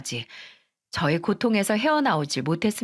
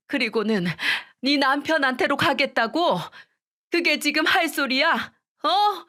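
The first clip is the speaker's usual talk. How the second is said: wailing scolding; 5 semitones higher than usual. Retold or imitated. Mother-in-law scolding her son's widow, tearful wailing rebuke. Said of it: "통곡을 하며 우는 건 저희 시어머니였어요".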